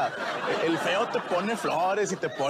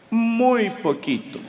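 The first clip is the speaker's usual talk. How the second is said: halting gringo; 5 semitones higher, 5 dB louder, much slower than usual. Retold or imitated. Gringo admitting little Spanish.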